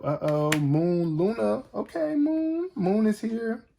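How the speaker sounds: high, drawn-out sing-song greeting to the moon card; excited sing-song. Real, not acted. Reader greets the moon card she just drew, high sing-song. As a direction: croon it up high, delighted.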